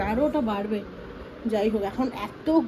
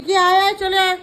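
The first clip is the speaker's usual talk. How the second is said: raised, louder call to come back; 5 semitones higher, 6 dB louder than usual. Real, not acted. Mother calling her toddler back from the edge, raised and loud. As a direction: call the little one away from the edge.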